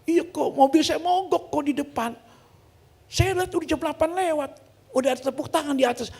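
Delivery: high-pitched mock weepy explanation; whiny, tearful retelling; tearful imitation. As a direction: imitate someone crying while explaining. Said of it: "Nah, dia nangis tuh".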